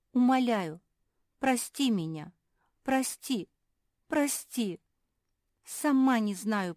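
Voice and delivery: high, loud, begging through tears; tearful pleading. Acted. Lucia in tears begging Marsia, desperate plea. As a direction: plead for forgiveness, near crying.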